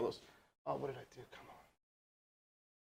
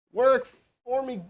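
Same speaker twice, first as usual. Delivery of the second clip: higher, drawn-out begging; exasperated plea, slowed right down; slow pleading plea; 6 semitones higher, slower than usual. Real, not acted. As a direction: stretch it out, begging the phone to work. Pleading with device, third try.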